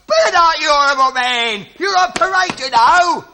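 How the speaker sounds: angry sergeant. Acted. Sergeant berates smoking soldier.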